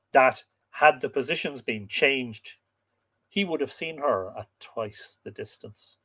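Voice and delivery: measured, expressive storytelling voice; story narration. A narrator's reading. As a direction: read it like an old legend, stressing key words. Reads the tale aloud.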